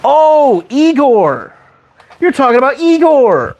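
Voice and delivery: high, raspy hunchback servant; lightly croaked Igor impression. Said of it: "it's kind of like an Igor voice".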